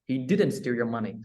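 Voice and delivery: didn't pressed, slowed; stress on DIDN'T. Shown as a demonstration. Teacher to student, stress on didn't. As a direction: deny firmly with didn't. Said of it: "nhấn vào chữ did này".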